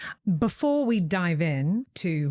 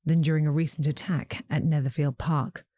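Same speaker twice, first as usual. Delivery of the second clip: gothic reading; 2 semitones lower than usual. Acted. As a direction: read it like Vincent Price. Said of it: "that was an incredible reading".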